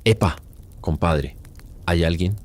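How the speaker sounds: mild mock shout into the jungle; calling out. Lost woodcutter calls for his friend, mild mock shout. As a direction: call out for a friend, lightly acted. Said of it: "Empieza a gritar".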